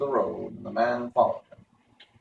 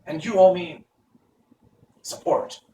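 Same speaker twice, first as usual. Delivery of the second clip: high, hollow-headed wooden man; Pumpkinhead voice; 7 semitones higher, 6 dB louder than usual. Acted. Jack Pumpkinhead asks Tip where they go, high voice. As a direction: pitch it way up like a carved pumpkin man.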